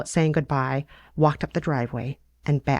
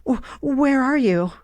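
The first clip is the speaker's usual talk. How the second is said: put-on higher, slow, stammering breathless girl; out of breath; 10 semitones higher than usual. Fanny gasping down the phone to her sister, breathless and higher. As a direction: catch your breath between the words. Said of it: "Fanny sounded out of breath".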